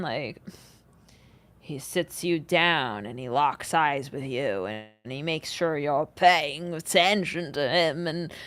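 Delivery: usual speaking voice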